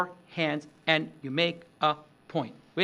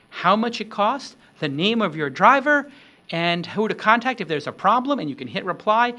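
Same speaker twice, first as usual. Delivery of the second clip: excited pitch; 4 semitones higher, 5 dB louder than usual. Pretend. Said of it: "it might be like".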